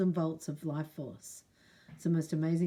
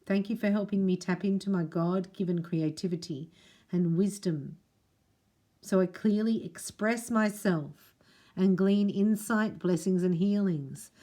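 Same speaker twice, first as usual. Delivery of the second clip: spoken prayer. Acted.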